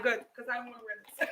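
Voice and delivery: rushed and laughing through it; laughing relief. Real, not acted. Vlogger relieved she can ditch the headset, rushing it out laughing. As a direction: blurt it fast while laughing.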